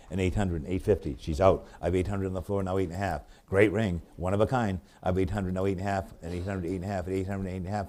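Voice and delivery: rapid rhythmic run of bid numbers; auctioneer bid calling. Acted. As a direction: keep the bids rolling like an auctioneer.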